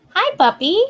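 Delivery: "Hi, puppy" cooed high with a rise; high cooing. Real, not acted. Same greeting, high coo.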